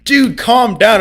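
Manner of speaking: high whiny mock of a chat viewer telling him to calm down. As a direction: sneer it like an annoying commenter. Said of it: "I hate it when people say that".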